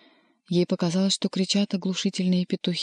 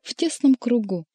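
lightly jangling, higher-pitched chatter; Koroviev; 6 semitones higher, 4 dB louder than usual. A narrator's reading. Retainer enjoying supper among intimates, mildly rattling. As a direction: finish on a lifted, faintly rattling note. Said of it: "дребезжал Коровьев".

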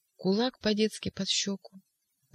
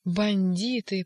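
slow outcry; 2 semitones higher, much slower than usual. Acted. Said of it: "прокричал Иван".

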